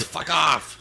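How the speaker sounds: high loud brush-off; angry shout. Acted. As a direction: shout them away. Angry reply to door jiggler.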